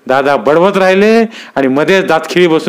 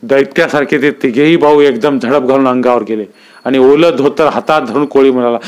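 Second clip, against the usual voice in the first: plain reading voice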